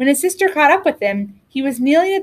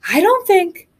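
out of breath; 8 semitones higher than usual. A narrator's reading. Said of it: "in between gasps of air".

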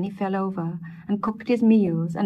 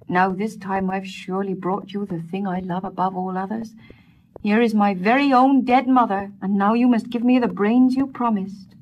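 louder, insistent demand; 2 semitones higher, 6 dB louder than usual. Acted. Peter to the wise woman, a louder insistent demand. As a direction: claim your due firmly.

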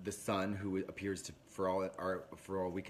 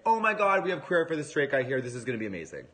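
much higher, louder, fast squeal of joy; screaming delight; 5 semitones higher, 9 dB louder, faster than usual. Retold or imitated. Mum thrilled to have a queer-eye son, loud high squeal. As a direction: shriek it like she's won the lottery. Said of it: "is like".

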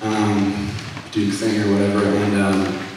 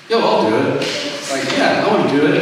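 mildly eager, higher-pitched quoted reply; eager volunteering; 4 semitones higher than usual. Retold or imitated. Student volunteering to give a testimony, mildly eager. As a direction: jump at it, pitch lifting. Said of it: "I was immediately like".

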